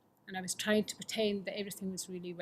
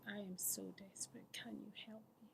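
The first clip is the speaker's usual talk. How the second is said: desperate plea; 15 dB quieter than usual. Retold or imitated. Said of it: "and I was just".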